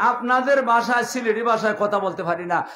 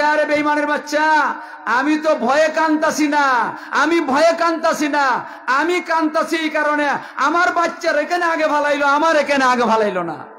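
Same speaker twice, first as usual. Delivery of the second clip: raised, slowed, ringing defiance at the tyrant; a mother hurling her grief back at him; loud, tearful defiance; defiant mother's cry; 5 semitones higher, 4 dB louder than usual. Acted. Mother defies the king, crying.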